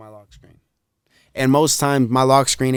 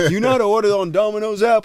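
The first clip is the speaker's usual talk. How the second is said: imitating friend; 8 semitones higher, 6 dB louder, faster than usual.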